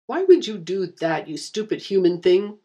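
wounded Oni snarling at her; through gritted teeth. Acted. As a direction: spit it out in pain through clenched teeth. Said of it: "the Oni said through gritted teeth".

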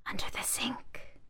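soft whispered murmur. Acted. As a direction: murmur it under breath. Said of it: "the bags murmured".

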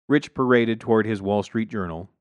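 ordinary delivery, nothing marked

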